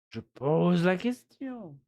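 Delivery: slow, lightly mimicked TV host line; a hint of a French presenter, slow. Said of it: "as some French presenters on TV say".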